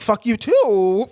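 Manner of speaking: loud, slow, drawn-out mock comeback; mock mad retort. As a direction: fire it back in playful indignation. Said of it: "'cause I get mad".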